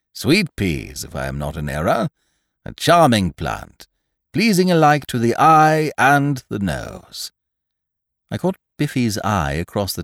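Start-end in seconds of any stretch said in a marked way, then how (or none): 0.1-7.3 put-on pompous old gentleman. Sir Roderick speaks.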